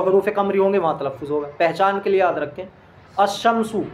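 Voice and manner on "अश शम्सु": अश-शम्सु with the lam merged into a doubled sh; Arabic sun-letter article spoken without the l; assimilated al. Shown as a demonstration. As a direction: say अश-शम्सु as ash-shamsu, no l sound. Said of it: "यहाँ पर लाम का तलफ़ुज़ नहीं हो रहा है".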